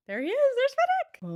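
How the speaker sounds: high, thrilled spotting; excited. Real, not acted. Fan spotting Finnick in the picture, high thrilled call. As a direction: point him out with delight.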